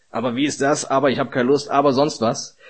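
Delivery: put-on lauter, trotziger Teenager, jedes Aber betont; gespielt trotzig. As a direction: maule wie ein bockiger Pubertierender. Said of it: "Ein bisschen trotzig dann". (Prediger imitiert trotzige Jugendliche, laut und bockig)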